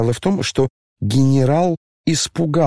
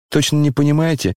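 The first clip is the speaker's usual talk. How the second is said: tearful pleading; 3 semitones higher than usual. Acted. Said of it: "Коля сам плакал".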